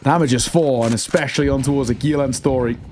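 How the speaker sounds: excited live play-by-play; esports caster. Real, not acted. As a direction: call the clutch as it unfolds.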